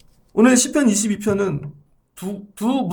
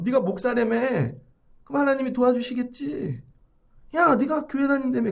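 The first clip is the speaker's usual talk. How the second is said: mocking; 3 semitones higher than usual. Scoffers jeering at a pastor or churchgoer, mocking. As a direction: needle them with fake sympathy. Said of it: "다 비웃고 있는 거죠".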